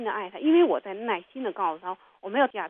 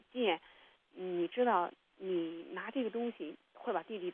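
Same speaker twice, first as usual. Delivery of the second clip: put-on soft, patient explaining to a child; gentle explaining; 6 dB quieter than usual. Mother patiently explains to her daughter why poking an ear is dangerous, soft and gentle. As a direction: calmly teach a little girl why it's dangerous.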